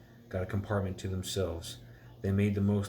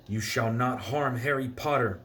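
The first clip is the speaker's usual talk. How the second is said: raised, higher elf voice; shouted; 4 semitones higher, 4 dB louder than usual. Acted. Elf Dobby defending Harry, loud shout. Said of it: "But Dobby shouted".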